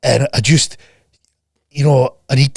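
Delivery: whispered, slow mock moaning; mock whiny complainer. Coach mocking a lazy client, whispered whine. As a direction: imitate a self-pitying slacker.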